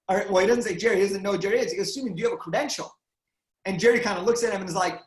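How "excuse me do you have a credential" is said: brisk, quick-fire challenge; quick official query. Retold or imitated. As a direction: ask it fast, like staff checking a pass. Elevator worker challenging a celebrity.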